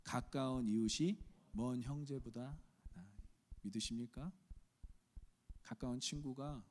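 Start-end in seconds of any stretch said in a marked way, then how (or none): 0.0-3.2 slow, solemn reading aloud; scripture reading. Acted. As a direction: read the verse together with the church. (회중과 함께 성경을 천천히 봉독)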